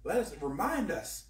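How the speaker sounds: earnest spoken prayer. Real, not acted. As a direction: pray it sincerely. Prays aloud to the Lord.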